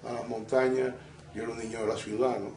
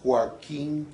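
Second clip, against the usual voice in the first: Joaquín with the stress held on the final í; Joaquín said slowly, landing on í; 3 semitones higher than usual. Shown as a demonstration. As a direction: lean on the last syllable of Joaquín, -quín. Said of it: "Fíjate que tiene el acento en la I".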